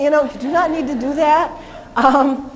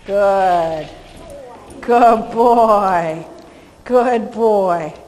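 praising a dog; 2 semitones lower, 4 dB louder, much slower than usual. Real, not acted.

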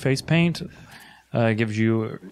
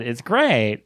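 snake voice; 2 semitones higher, 3 dB louder than usual. Acted. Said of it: "is that your new snake voice".

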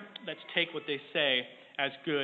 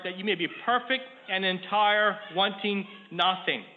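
higher, measured Bible reading voice; scripture reading; 4 semitones higher than usual. Acted. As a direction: read the verse out to the congregation with emphasis. Reads scripture aloud.

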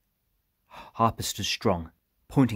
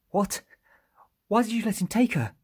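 high-pitched, louder incredulous question; aghast disbelief; 5 dB louder than usual. A narrator's reading. Iram challenges the men who let her go, aghast. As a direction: burst out in high, shocked protest.

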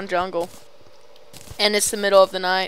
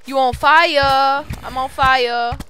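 loud, higher, drawn-out taunt; playful taunt; 4 semitones higher, 9 dB louder, much slower than usual. Pretend. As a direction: crow it at a burning zombie. Taunting zombie during fight.

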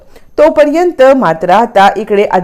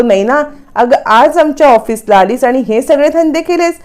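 raised pitch, mild mock scolding; retold anger; 5 semitones higher than usual. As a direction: scold with understated, acted outrage. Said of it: "Shrikant खूप चिडतो आणि म्हणतो". (चढ्या स्वरात रागावल्याची सौम्य नक्कल)

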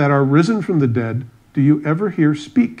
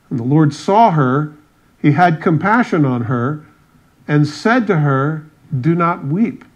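raised, measured Bible-reading voice; scripture reading; 2 semitones higher, 4 dB louder than usual. Acted. Preacher reading a gospel story to the congregation, emphatic scripture reading. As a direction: read the passage out with emphatic, declamatory phrasing.

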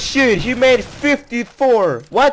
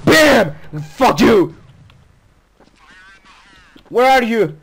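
raging gamer; 2 semitones higher than usual. Real, not acted. Firefight in the game.

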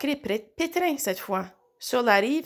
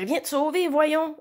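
shouting; 5 semitones higher than usual. A narrator's reading. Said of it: "hurla Louve".

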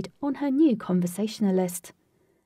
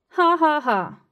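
loud, high mocking laugh; burst of laughter; 7 semitones higher, 7 dB louder, slower than usual. Wrath laughing at Captain Cash, loud burst of laughter. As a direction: let the laugh escape, then cut short. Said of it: "Wrath couldn't contain his laughter".

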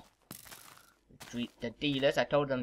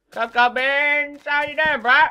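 silly high greeting; 12 semitones higher, 11 dB louder, slower than usual. Pretend.

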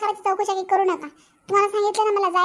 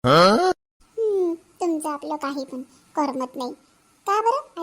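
sceptical tease; 6 semitones lower, much slower than usual. Acted. Wife teasing husband's complaint.

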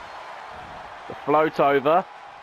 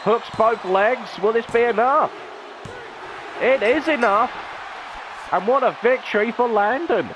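play-by-play climax of the finish; building excitement; 5 semitones higher than usual. Real, not acted. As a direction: build the count to a triumphant call. Final pinfall called live.

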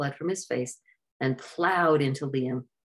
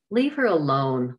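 a louder, firm order; demanding; 5 dB louder than usual. Acted. Liam defending Sydney, a louder demand. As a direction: tell him to back off. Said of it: "Liam demanded".

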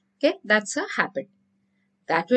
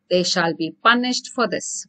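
threat; 5 semitones lower than usual. Shown as a demonstration. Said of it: "It's a threat".

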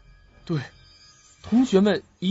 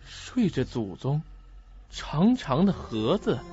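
softer, drawn-out musing over clues; slow pondering; 3 semitones lower, 4 dB quieter, slower than usual. Acted. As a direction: turn each clue over slowly.

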